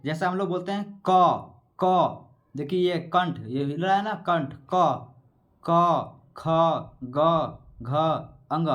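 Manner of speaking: each letter said apart, slowly, to show the throat; sounding out letters. Shown as a demonstration. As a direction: say क, ख, ग one by one so the throat moves. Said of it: "हम आपको बोल कर दिखाते हैं". (कंठ दिखाते हुए वर्ण बोलना)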